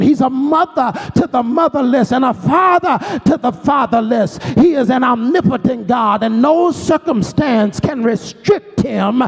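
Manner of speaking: preacher climbing into full fervour; rising pulpit preaching, call and response energy; building sermon. Acted. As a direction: lift it line by line into a rousing church climax.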